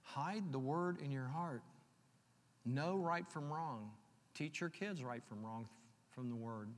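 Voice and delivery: slow, soft urging; soft sermon counsel; gentle exhortation. Acted. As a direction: coax the flock gently. Softer exhortation.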